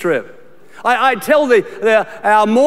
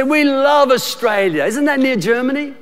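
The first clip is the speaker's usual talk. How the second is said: imitating naive Americans; 4 semitones higher than usual. Pastor mocks Americans who confuse Australia's location, higher gushing. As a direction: gush cluelessly. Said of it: "And they say".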